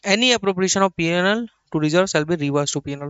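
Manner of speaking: slow, measured reading of the text; slow dictation reading. Acted. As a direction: read it out slowly so the class can copy it. (धीमी आवाज़ में लिखवाना)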